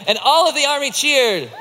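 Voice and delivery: ALL pushed high and strong; rally the crowd, hitting "all" hard; high, rousing cue with a big "all"; stress on ALL. A narrator's reading. Cues the crowd again.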